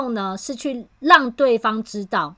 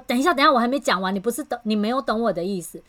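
fast, rushed cut-in; impatient interruption; faster than usual. Retold or imitated. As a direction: rush to stop them, not done yet. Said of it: "导致对方就急起来了".

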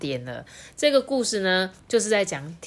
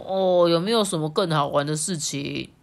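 pouting; 3 dB louder than usual. Acted. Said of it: "嘟着嘴说".

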